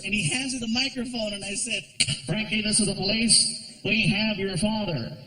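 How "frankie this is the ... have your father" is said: mock police megaphone. Fake police announcement on mic.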